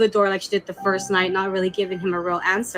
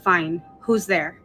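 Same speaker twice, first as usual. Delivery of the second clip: slow, lower, resigned reply; giving up; 3 semitones lower, slower than usual. Retold or imitated. Boyfriend giving in to the knock knock joke, resigned. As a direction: give in reluctantly, drawn out. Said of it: "giving up".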